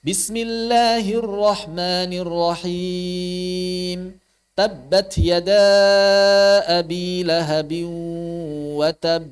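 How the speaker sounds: slow chanted recitation, "tab" firm but not jolted; qalqalah biasa. Shown as a demonstration. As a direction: press the b of "tab" and release it normally. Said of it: "sebenarnya biasa saja". (tilawah pelan, "tab" ditekan tanpa dihentak)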